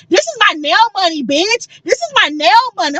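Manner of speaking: high-pitched mock flexing; imitation of a rapper, like a young rapper. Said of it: "Why she sound like Lil Tay?".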